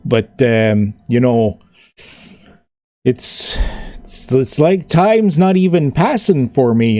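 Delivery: easygoing orc chatting, relieved; friendly orc. Acted. Orc tells Royale with Cheese he's fine, lightly voiced.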